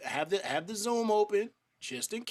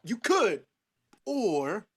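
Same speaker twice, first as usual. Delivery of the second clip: mimicking a rapper; 3 semitones higher, 4 dB louder, much slower than usual. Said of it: "'cause he said".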